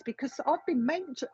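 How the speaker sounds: lightly imitating a surprised visitor; relaying his surprise. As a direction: pass on his words with a touch of surprise. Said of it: "he's quite surprised, this is how he's saying it".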